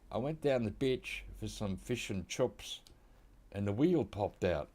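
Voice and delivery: put-on a light New Zealand accent, whale said like wheel. Australian gamer mimics a New Zealander, lightly done New Zealand accent. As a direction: imitate a Kiwi telling a story in a New Zealand accent. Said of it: "if I was a New Zealander".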